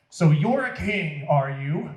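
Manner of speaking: 비웃듯 조롱하며 묻기; 왕이라고? 하고 놀리듯; jeering. Acted. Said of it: "the Roman soldiers jeered".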